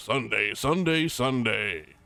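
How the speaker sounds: monster truck rally promo announcer voice. Speaker says he won't do weird voices, then mocks a Monster Jam commercial voice. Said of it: "I'm not trying to do like a Monster Jam kind of thing".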